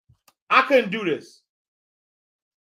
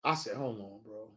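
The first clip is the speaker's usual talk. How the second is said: low mock protest; 11 semitones lower, 18 dB quieter than usual.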